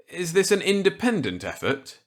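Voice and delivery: put-on eager reply to an old colleague; Walker's voice. Walker accepting Millet's gambit eagerly.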